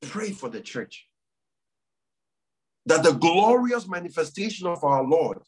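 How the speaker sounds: earnest prayer call with long pauses; leading prayer. Real, not acted. Pastor urging the church to pray for families, solemn prayer leading. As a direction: lead the congregation in prayer, phrase by phrase.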